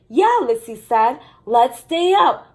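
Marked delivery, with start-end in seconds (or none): 0.1-0.4 a bright, high, louder yeah; eager yeah. Acted. Lissy eager to stay up. 1.4-2.5 higher, louder and slow, keen; eager. Acted. Lissy eager to stay up.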